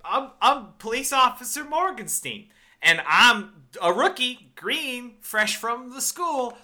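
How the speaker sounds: high, loud mock Brooklyn accent, slowing down; mock Harley Quinn accent. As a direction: imitate a clumsy New York rookie cop accent. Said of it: "the Harley Quinn accent".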